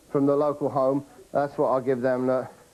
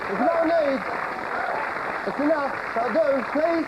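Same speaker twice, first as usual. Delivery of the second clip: character voice; 9 semitones higher, slower than usual. Acted. Comedy character waving off applause.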